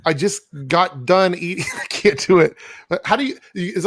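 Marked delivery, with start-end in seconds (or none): 0.1-1.6 attempted Aussie accent; amateur Australian impersonation. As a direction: have a rough go at an Australian accent. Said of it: "accents and impersonations".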